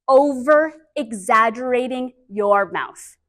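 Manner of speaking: slow, deliberate over-articulation; slow demo. Shown as a demonstration. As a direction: stretch out every syllable for the class. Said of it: "I want it to look like this".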